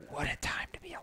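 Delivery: hushed wry whisper; soft whispered punchline. Retold or imitated. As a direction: breathe it out like a secret aside. Quoting a wry social media post.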